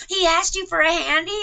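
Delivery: high, loud incredulous question; guy friend shocked at the handy story, high and loud; shocked disbelief. Retold or imitated. Friend's reply retold in text.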